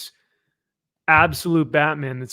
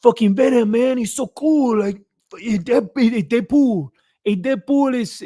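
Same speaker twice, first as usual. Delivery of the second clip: high, loud, hammed-up Latino-accented fan; mock Latino accent; 9 semitones higher, 5 dB louder than usual. Imitating local fans raving about favorite characters, mock Latino accent. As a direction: gush in an exaggerated Latino accent. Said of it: "and they're like".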